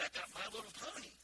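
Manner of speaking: flat, fast sarcastic "excited"; mock excitement. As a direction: act bored while saying it. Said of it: "Boy, I'm excited".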